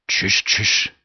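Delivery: unvoiced urgent shushing; urgent hush. A narrator's reading. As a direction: hush them fast, breathy. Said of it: "faldt Percy Noakes dem i talen". (hvisket tys)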